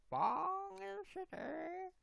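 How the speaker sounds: very high, drawn-out squeal of a voice; stretched-out, high-pitched mimicry; Lego person impression. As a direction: mimic it slow and sky-high. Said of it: "There's a Lego person who does a real".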